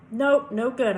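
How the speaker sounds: loud, abrupt rejection; impatient correction. A narrator's reading. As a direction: shake him out of it, loudly. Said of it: "I said, shaking him".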